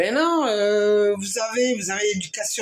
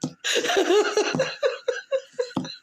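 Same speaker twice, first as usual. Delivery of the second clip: long, high breathless laugh; real uncontrollable giggles; laughing fit; 13 semitones higher than usual. Real, not acted. Woman disturbed by the president's English, laughing helplessly.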